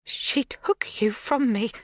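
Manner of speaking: slow, unvoiced whisper of "She took you from me". A narrator's reading. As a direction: breathe it out before finding voice. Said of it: "Her voice is louder".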